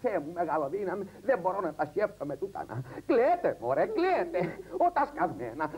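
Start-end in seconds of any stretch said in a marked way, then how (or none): 3.1-4.4 put-on high, loud scolding at the children to cry; yelling at the kids. Mother on a TV show yelling at her kids to cry. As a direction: shout them into crying.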